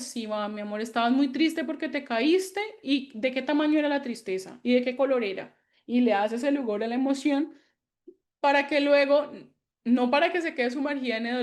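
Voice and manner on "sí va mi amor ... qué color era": put-on mother gently asking a crying child about sadness; tender comforting. Shown as a demonstration. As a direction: soothe and ask kindly.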